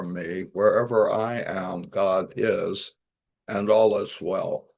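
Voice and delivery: measured, steady prayer in unison style; prayer recitation. Retold or imitated. Group of people saying the prayer together, measured recitation. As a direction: recite it evenly, phrase by phrase.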